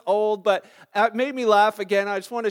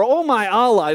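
loud pretend oath; mock exclamation; 8 dB louder than usual. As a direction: cry it out as a mock swear word. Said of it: "use that name as a swear word".

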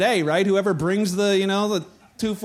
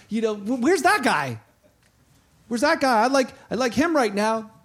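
raised, complaining follower's voice; whiny disciple; 2 semitones higher, 3 dB louder than usual. Retold or imitated. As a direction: scold Jesus like a let-down fan.

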